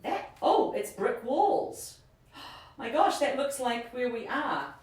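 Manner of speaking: breathless, amazed gasp; gasping in awe; surprised gasp. Real, not acted. Gasps on seeing brick walls.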